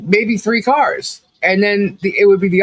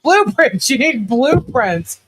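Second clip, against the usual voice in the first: higher, slow, drawn-out disbelief; exasperated inner voice; 7 semitones higher, slower than usual. Retold or imitated. Retelling her thoughts about Travis, exasperated and slow. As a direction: spell it out as if to a slow child. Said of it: "And I'm thinking".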